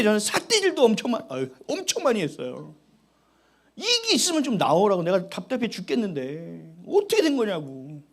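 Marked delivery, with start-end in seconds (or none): 3.7-8.0 1 mock threat to God. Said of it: "막 협박도 하고 그랬어요".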